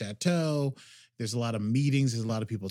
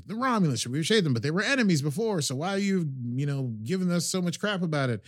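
higher, mild mock argument; mock yelling; 6 semitones higher than usual. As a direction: push back like in a heated meeting. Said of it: "Clancy and Picard are yelling at each other".

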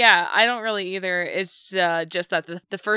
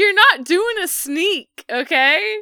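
high, loud teasing rant; excited; 8 semitones higher, 6 dB louder than usual. Real, not acted. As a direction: tease him, laughing.

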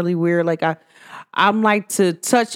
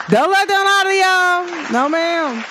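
higher, laughing through the words; 9 semitones higher than usual. Real, not acted. Teasing viewers about lying friends, laughing. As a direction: giggle out the warning.

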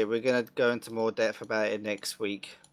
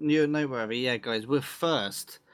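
voice cracking; 3 semitones higher than usual. Real, not acted. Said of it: "listen to him get tongue-tied".

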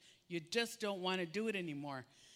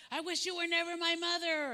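put-on frustrated kid; 9 semitones higher, 4 dB louder, faster than usual. Frustrated kid quoted to parent.

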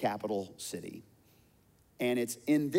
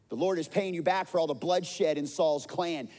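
bitter accusing shout; 5 semitones higher, 3 dB louder than usual. Acted. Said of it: "he shouted at David".

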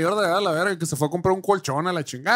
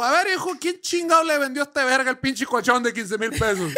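high, stern dad demanding answers; angry father demanding; 6 semitones higher than usual. Retold or imitated. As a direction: confront the store like an angry father. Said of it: "Y llegó".

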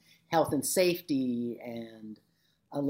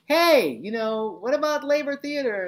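high, louder mock student asking; eager students; 10 semitones higher, 6 dB louder, slower than usual. Students asking their teacher for a theater class, high and eager. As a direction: imitate keen students pitching an idea. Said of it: "There's a few students said".

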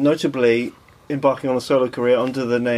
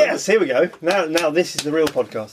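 enthusiastic. Pretend. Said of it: "dial up the enthusiasm".

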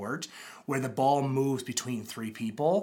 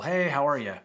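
breezy empty greeting; 2 semitones higher, 3 dB louder than usual. Retold or imitated. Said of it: "empty greetings".

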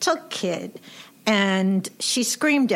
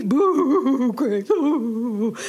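mock taunt; 3 semitones higher, much slower than usual. Siblings taunting crying little sister.

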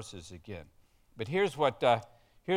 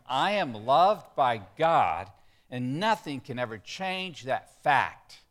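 slow, louder, emphatic declaration; with enthusiasm; 4 dB louder than usual. Shown as a demonstration. Pastor leads congregation in declaring it with enthusiasm. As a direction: proclaim it with enthusiasm. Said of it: "Say it with some enthusiasm".

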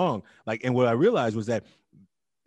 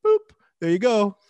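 loud and higher, daring the student; loud confrontational teacher; 7 semitones higher, 8 dB louder than usual. Retold or imitated. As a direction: brush him off with a booming challenge. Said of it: "I'm like".

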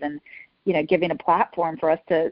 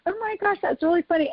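high, delighted gasp of a laugh; amused surprise; 12 semitones higher than usual. Retold or imitated. Telling Brenna about the JetBlue commercial, pitched-up amused surprise. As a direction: act out your own surprise at the memory, pitched up high. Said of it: "I was like".

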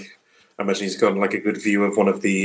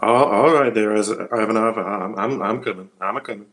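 put-on country accent. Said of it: "You go country".

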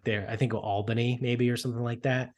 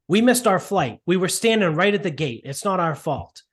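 higher, pleading complaint; mock upset old man; 5 semitones higher than usual. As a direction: repeat the old man's protest, a touch higher. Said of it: "The old guy is there and he's like".

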